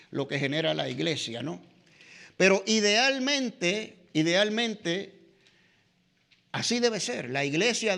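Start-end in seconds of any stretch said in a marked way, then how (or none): 2.4-5.2 "idealmente" said slowly and stressed, twice; emphasized word. Shown as a demonstration. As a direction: linger on "idealmente" both times. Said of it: "y enfatizo esta palabra". ("idealmente" lento y enfatizado dos veces)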